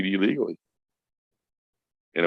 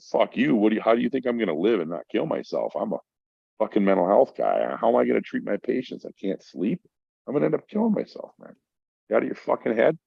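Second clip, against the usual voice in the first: retold angry rant; 5 semitones higher than usual. Retold shouting match with doctor.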